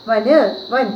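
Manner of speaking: വൻ said van, ending on bare n; final vowel dropped. Shown as a demonstration. Teacher drills the class on വൻ, bare n ending. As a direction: repeat വൻ, stopping on the n. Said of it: "ന് എന്ന് പറയാൻ പാടുള്ളൂ".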